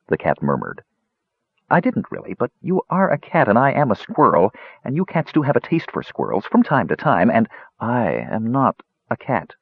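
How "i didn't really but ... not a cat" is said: lightly voiced anxious squirrel; nervous squirrel voice. Squirrel insists to cat.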